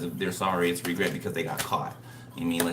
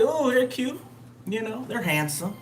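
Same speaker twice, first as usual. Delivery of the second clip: much higher, half-sung mock admiration; mock gushing; 14 semitones higher than usual. Reader imitating her reaction to a new face, high mock gush. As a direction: coo over them like a smitten fan. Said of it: "I'm like".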